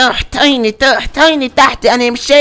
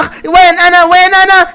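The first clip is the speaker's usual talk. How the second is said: higher, startled where am I; dazed waking; 5 semitones higher than usual. Acted. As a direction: come to with a gasp.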